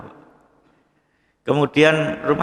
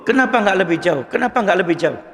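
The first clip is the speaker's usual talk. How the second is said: lightly voiced sleep-talking, a bit higher; delirious murmur; 5 semitones higher than usual. Preacher voicing a dying companion's mutterings, mild delirious tone. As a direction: retell a dying man's raving as if half asleep.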